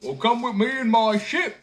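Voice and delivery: high, loud invitation; simpleton inviting. A narrator's reading. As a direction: call him aboard. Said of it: "said the simpleton".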